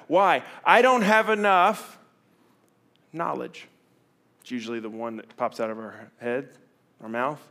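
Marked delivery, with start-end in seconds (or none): 0.6-3.7 high, slow, put-on whine, fading at the end; whiny excuse. Preacher mocking a fearful believer's excuse, whiny. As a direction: stretch out the excuse in a mock whine.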